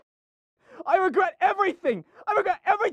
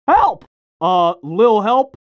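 calling for help; 3 semitones higher, slower than usual. Acted. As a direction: cry out for help. Victim calls for help.

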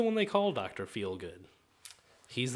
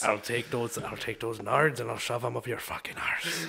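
put-on Irish accent; 5 semitones lower, 3 dB quieter than usual. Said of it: "that's my Irishman".

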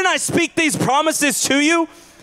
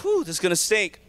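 soft, lower mock disgust at the smell; 5 semitones lower, 6 dB quieter than usual. Crowd at the tomb, soft mock disgust. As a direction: wrinkle the nose at a stink. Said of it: "They're like".

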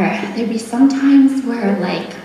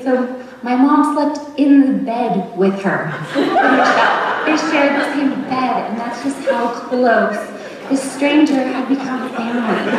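laughing while talking; 4 semitones higher than usual. Real, not acted. Fond story of mom sharing bed.

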